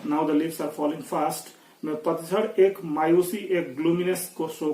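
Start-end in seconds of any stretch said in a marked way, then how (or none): 0.1-1.5 poem quote. Shown as a demonstration. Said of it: "पिछले poem में भी देखे".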